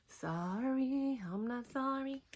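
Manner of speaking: giggly, teasing take on sorry I'm not sorry; laughing sorry not sorry. Real, not acted. To viewers, laughing off her ex, teasing. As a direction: toss it off through a laugh.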